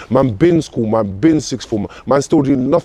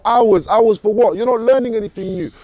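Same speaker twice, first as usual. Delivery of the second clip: heated rant; 7 semitones higher than usual. Real, not acted. Ranting about prisons teaching nothing.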